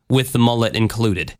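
put-on Southern twang; Southern accent. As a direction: tack it on in a mock-Southern accent. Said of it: "you get a Southern accent".

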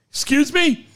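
offended caller bristling. Pretend. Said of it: "caller offended".

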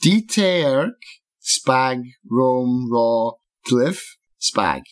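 words spoken in reverse, very slow; backwards speech. Acted. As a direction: say it backwards so it plays forward reversed. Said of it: "You know I can just reverse the audio".

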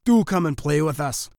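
lightly voiced plea; pleading mice. A narrator's reading. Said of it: "pleaded the mice".

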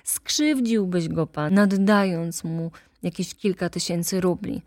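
agitated attorney insisting; excited lawyer. Acted. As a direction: rush to talk him out of it. Lawyer explains Łęcki's ruin.

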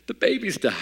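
high wailing imitation of the wife; imitating wife wailing. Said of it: "she is just crying".

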